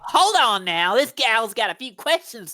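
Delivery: folksy Texas twang; southern accent. Acted. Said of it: "A southern accent?".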